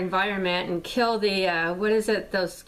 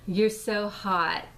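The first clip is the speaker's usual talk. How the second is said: mock creepy compliment; much slower than usual. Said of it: "I get these really insulting comments".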